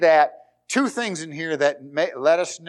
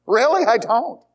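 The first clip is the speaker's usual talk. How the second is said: mock self-reply; 7 semitones higher, 5 dB louder than usual. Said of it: "then I answer myself".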